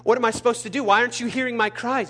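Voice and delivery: retold frustrated prayer, stumbling over words; re-enacted complaint to God; exasperated pleading. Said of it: "I said".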